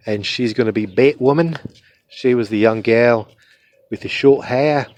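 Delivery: put-on Australian accent. Shown as a demonstration. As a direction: talk like an Australian. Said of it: "This is my Australian accent".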